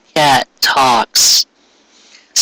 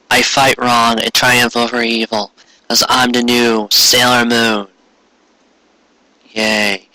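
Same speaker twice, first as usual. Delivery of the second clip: mock heroic slow declaration; 3 semitones lower, slower than usual. New Sailor Moon declaring.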